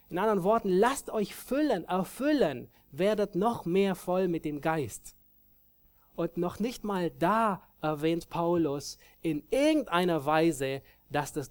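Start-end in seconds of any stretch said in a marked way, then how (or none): none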